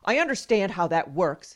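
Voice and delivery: mildly forceful retold reply; imitated insisting. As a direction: insist like an impatient doctor. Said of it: "he insisted".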